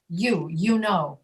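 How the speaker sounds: slow "You" begun as "ee-oo"; EE glide on you. Shown as a demonstration. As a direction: model "you know" with a clear Y glide. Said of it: "mentally replace it with an I".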